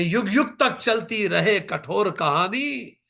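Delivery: slow, impassioned declamation; stately Hindi verse reading; poetic recitation. Acted. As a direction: declaim each line with weight. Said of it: "वो कहती है".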